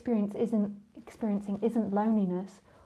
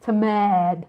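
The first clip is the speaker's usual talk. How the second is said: mock annoyance; 7 dB louder than usual. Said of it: "You could tell it was like".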